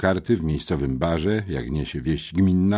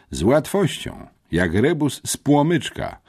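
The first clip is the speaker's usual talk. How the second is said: cocky, higher-pitched brag; boastful; 8 semitones higher than usual. A narrator's reading. Boy wants his captors envious, chiming in boastfully. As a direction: show off how easy it was. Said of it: "wtrąciłem chełpliwie".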